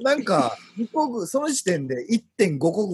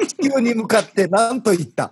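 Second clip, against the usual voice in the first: emphatic readout; 6 semitones higher, 5 dB louder than usual. Shown as a demonstration. お題を張って読み上げる.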